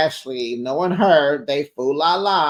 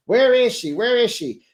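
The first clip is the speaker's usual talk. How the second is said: mock confessional whisper-gossip; 8 semitones higher, 4 dB louder than usual. Gossip recap voicing cast confessionals.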